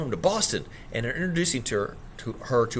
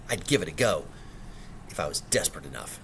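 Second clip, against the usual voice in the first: muttered aside; 8 semitones lower, 7 dB quieter than usual. Acted. Albert's muttered remark overheard.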